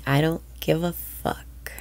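breathy whispered affirmation. Shown as a demonstration. Whispered affirmation, then repeated aloud.

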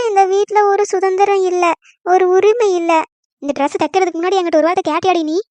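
quick, whiny fake sobbing complaint; daughter-in-law faking tears to win the fight; fake crying. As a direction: put on crocodile tears while accusing. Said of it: "கண்ணீரை விட்டு acting விடுவோம்".

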